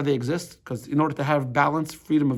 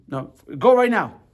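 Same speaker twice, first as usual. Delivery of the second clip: louder, higher, slow firm order; insistent parent; 6 semitones higher, 6 dB louder than usual. Retold or imitated. Parent insisting the kid go now, slow loud order. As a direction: lay down the law, word by word.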